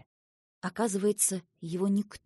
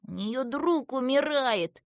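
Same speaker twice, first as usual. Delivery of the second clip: higher, slowed, emphatic plea; urgent appeal; 5 semitones higher, 4 dB louder, slower than usual. A narrator's reading. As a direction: appeal with distress, stretching the words. Seva pleads for Asya's friend.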